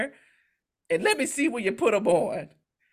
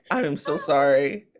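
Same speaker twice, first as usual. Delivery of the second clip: polite apology; 7 semitones lower than usual. Retold or imitated. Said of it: "All I can do is just say".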